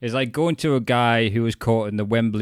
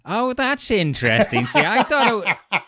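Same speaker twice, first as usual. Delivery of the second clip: nerdy shark specialist; 9 semitones higher than usual. Retold or imitated. Imitating the specialist studying the surfer's bite marks, high and fussy. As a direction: play the eager specialist admiring the bite. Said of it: "and go".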